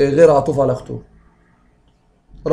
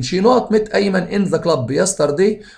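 slow dictation; 2 semitones higher, much slower than usual. Shown as a demonstration. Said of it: "teacher reads exam sentence".

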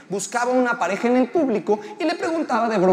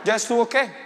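puzzled reply. Acted. Comic's puzzled reply to heckler.

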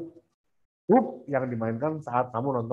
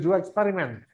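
American English; 4 semitones higher than usual. Shown as a demonstration. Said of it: "atau American English".

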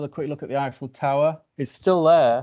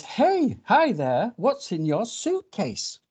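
high-pitched, inquisitive little bird; curious bird; 9 semitones higher, much slower than usual. Acted. Bird asking a stranger about the suitcase, high and curious. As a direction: call out high, then stretch out the question.

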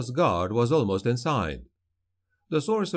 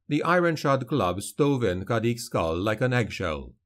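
ordinary delivery, nothing marked

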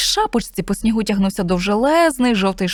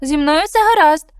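high, slow small creature voice; little snowman; 7 semitones higher, 5 dB louder than usual. Acted. Snowman reassures the cat, high and slow. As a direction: reassure bravely, slowly.

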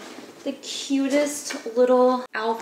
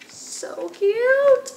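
high, whispered so cute; whispering over a tiny outfit; whispered gush; 13 semitones higher than usual. Real, not acted. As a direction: breathe it out in awe.

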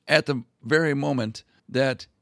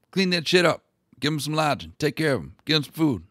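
king giving orders; 3 semitones higher, 4 dB louder than usual. Retold or imitated. King of Portugal ordering the Prior of Crato to host Columbus, loud commands. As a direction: bark out orders like a fussy king.

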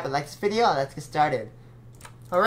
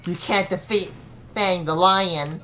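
unhinged villain; 2 semitones higher, 5 dB louder than usual. Acted. Villain boast and laugh.

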